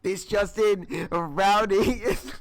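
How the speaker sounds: loud, slow newsflash with a laugh; mock breaking news. Teasing a friend with a fake bulletin, mock newsreader. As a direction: announce it like a joke bulletin.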